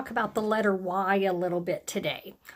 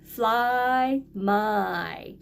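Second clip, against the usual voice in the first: excited listing; much slower than usual. Shown as a demonstration. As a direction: celebrate each word. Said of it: "Let's see what we have".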